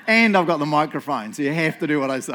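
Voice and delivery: loud, mock domineering boast; mock bossy. Pastor jokingly lording the microphone over the crowd, loud mock boast. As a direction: boom it like a self-important boss. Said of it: "I'm joking".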